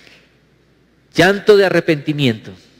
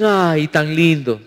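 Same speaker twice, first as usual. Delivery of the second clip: cooing admiration, imitated; much slower than usual. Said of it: "algunos dicen".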